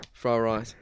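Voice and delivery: mock Asian accent. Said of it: "fried rice in an extremely Asian accent".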